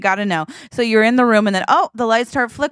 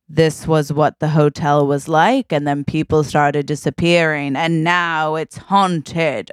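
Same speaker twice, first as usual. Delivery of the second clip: low, slow, creepy guide voice; spooky hotel guide; 5 semitones lower, slower than usual. Retold or imitated. Retelling the Tower of Terror backstory, slow spooky guide voice. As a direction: drag it out like a haunted tour host. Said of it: "where it's like".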